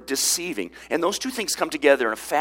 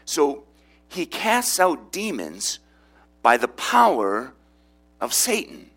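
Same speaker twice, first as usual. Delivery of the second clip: mocking the accusers; 2 semitones higher, slower than usual. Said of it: "They say".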